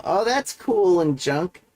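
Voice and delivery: put-on high, slow valley girl drawl. Shown as a demonstration. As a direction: gush it like a bored valley girl. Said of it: "I'm just saying it like a valley girl".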